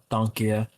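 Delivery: Danke with a breathier end vowel; Danke, tahn-kih; German Danke again. Shown as a demonstration. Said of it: "or Danke schön".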